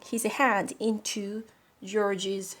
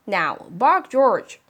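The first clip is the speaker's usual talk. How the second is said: louder firm order; insistent command; 7 dB louder, slower than usual. Acted. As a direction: demand the bark. Mother insisting.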